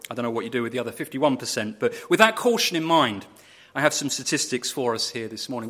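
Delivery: normal talking voice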